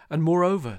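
loud, high emphatic interjection. Acted. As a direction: cut in loudly to make a point. J J's loud legal point.

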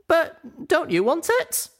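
high, slow, wondering; surprised question. A narrator's reading. Offered the statuette by a friend, high surprised question. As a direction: ask it high-pitched in surprise. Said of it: "I asked, surprised".

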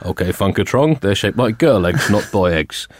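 lightly voiced Obama. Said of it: "go for the full Obama".

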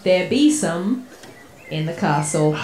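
lightly voiced pirate accent; a hint of a pirate accent. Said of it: "taken on the pirate voice".

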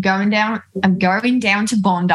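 put-on Aussie accent, warming up; attempted Australian accent. Shown as a demonstration. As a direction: try out an Australian accent lightly. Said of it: "do a British accent that somehow sounds Australian".

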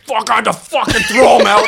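high-pitched imitation of an exasperated comic; hammed-up ranting, pitched well up; mock outraged yell. Comic venting about an ejection, mock outraged.

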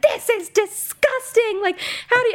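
mocking disgust. Retelling the hosts mocking a frat house, high mock disgust. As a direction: sneer it out like the judgy hosts. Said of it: "they were like".

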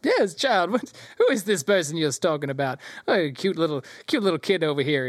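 lilting, patronising gnome voice; gnome announcer. Acted. Gnome announcer fussing over a cute child, in character. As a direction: coo at the kid as a gnome showman. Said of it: "this gnome goes".

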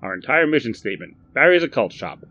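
hearty shopkeeper greeting; Barry's eager voice. Acted. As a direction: chirp it like a keen salesman. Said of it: "said Barry".

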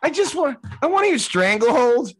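high-pitched, half-laughing mock plea; pleading protest.

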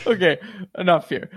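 words broken by laughter; laughing. Real, not acted. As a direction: still giggling, trying to stop. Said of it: "I can't stop laughing".

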